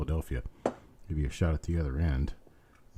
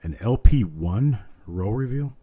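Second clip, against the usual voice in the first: surprised; 5 semitones higher, 6 dB louder than usual. Real, not acted. Viewer asks unexpected reveal.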